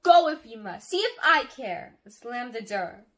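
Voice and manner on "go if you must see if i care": very loud, high, angry shouting; furious roar. A narrator's reading. Sister roars at departing brother from upstairs, furious. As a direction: roar it before slamming the door. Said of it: "stomped upstairs to my room and roared".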